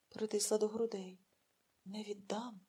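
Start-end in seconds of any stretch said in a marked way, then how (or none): 1.8-2.6 soft whisper, much softer, altered voice. Acted. Mother clutching her newborn whispers to herself. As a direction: breathe the vow barely aloud. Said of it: "прошепотіла вона".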